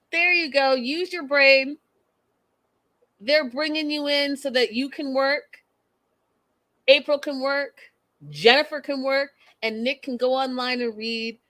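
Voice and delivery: high, emphatic encouragement; cheering her on. Retold or imitated. Vlogger cheering Danielle through the screen, emphatic. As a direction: urge her to wise up.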